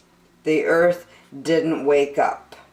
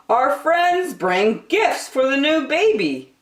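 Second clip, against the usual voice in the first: higher, friendly explaining tone; smiling father; 10 semitones higher than usual. Acted. Father explaining the shower gifts, friendly voice. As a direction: explain kindly with a smile.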